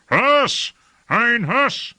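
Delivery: loud, high call for help; high-pitched shout for someone below; shouted summons. A narrator's reading. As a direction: yell his name across the castle. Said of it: "shouted in vast, inarticulate grief".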